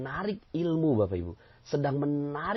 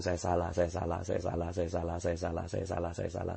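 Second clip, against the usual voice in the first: 1 murmured confession; 6 semitones lower, 5 dB quieter than usual. Retold or imitated.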